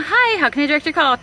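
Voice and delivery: brighter, chirpy phone greeting; lightly voiced receptionist. Her old office self answering calls, chirpy. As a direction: answer the phone like the front desk. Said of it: "me years ago working in office".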